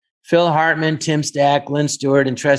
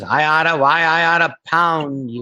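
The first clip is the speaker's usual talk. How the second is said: forties tough guy. Retold or imitated. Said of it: "we're all talking like the forties".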